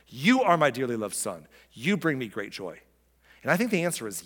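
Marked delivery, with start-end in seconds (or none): 0.1-2.8 speaking to Jesus. Acted. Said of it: "was he speaking to Jesus in the first person".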